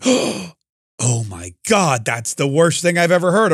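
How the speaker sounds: put-on scandalized reaction; hammed-up dismay; mock horror. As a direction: act appalled, drawing out the opening. Mocks people being horrified.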